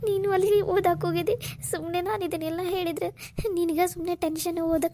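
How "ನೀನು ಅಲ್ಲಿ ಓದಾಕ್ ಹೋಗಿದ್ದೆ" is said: tearful, words through sobs; telling him while breaking into tears; crying. Acted. Sister tells her brother about the stalker, tearfully. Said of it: "Kaveri, ಅಳ್ಬೇಡಮ್ಮ".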